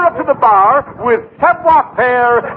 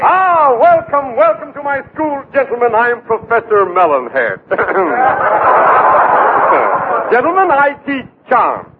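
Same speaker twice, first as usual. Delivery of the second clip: pompous professor. Acted. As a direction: welcome them grandly.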